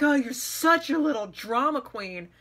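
sneering imitation, leaning on the insult; retold mocking. Critic belittling her for finally speaking up, imitated mockery. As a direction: taunt them, mildly hammed up. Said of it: "she mocked me for being a drama queen".

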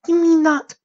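high, loud disbelief; gasp-like high query, dreading the answer; shocked question. Acted. Rarity reacts to dire news.

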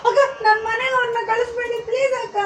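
a touch of a tearful plea; pleading demo. Shown as a demonstration. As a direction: show her how to beg quickly. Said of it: "fast ಆಗಿ ಹೇಳು". (ಅಳುಕಿನ ಬೇಡಿಕೆ)

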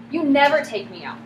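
accusing complaint. Shown as a demonstration. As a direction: throw the blame at your partner. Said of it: "and saying".

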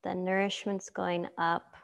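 calm yoga teacher guiding a relaxation; guided meditation. Acted. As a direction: lead them gently into stillness, unhurried.

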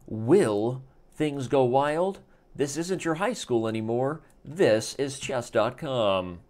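very slow, dramatic trailer narration; movie trailer voice. Pretend. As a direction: drag each phrase like a blockbuster teaser.

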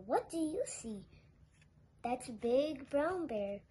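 ordinary delivery

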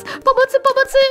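mock cry for help. Chased, crying for help.

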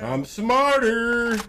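drawn-out smug brag; slow smug gloat. Real, not acted. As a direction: stretch it out smugly. Gloating after kill.

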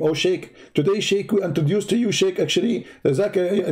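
lightly mocking, fawning host introducing a sheikh; mocking host intro. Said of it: "this is what Mimi, uh, H-, Hajoubi, he said".

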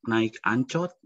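mock foreign tourist, drawn out; foreigner mispronouncing. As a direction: play a foreigner fumbling the word. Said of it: "Misalkan dia bilang".

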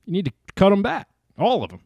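high, pushy mimicry of the tree man; mimicked tree guy. Imitating the tree guy's order.

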